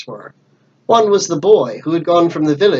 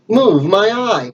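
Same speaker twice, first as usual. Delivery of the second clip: higher, slow scornful cry; angry cry; 6 semitones higher, slower than usual. Acted. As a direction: spit the words back at the cowards. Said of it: "cried Pugh".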